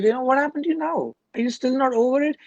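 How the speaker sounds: a friend asking, amazed the sadness lasts a month, incredulous; incredulous question. Retold or imitated. Checking in on a friend still sad after a month, mock incredulous. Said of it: "you're like".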